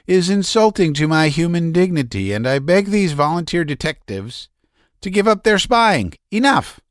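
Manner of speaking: high, strained, nervous voice; a man near hysterics pouring it out; agitated Laevsky. A narrator's reading. Laevsky raving.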